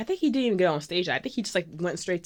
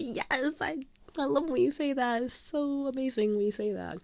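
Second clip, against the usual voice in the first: high, softened fangirl gush; gushing adoration; 8 semitones higher than usual. Retold or imitated. Fan answering her idol's compliment, high adoring gush. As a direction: gush sweetly at your idol.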